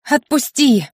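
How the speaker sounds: high-pitched insistent cry; shrieking. A narrator's reading. Wife carried off over husband's shoulder, high shriek. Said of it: "заверещала я".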